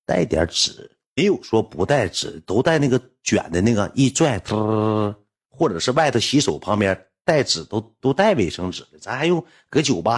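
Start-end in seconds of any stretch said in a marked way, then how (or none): 4.4-5.1 rolled tongue sound of paper pulling; imitated whirr of a paper roll; paper-roll trill.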